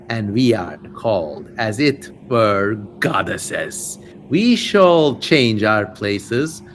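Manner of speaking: slow, eerie spirit voice, lightly voiced; demon sisters. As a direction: intone like a chorus of dark spirits, slow.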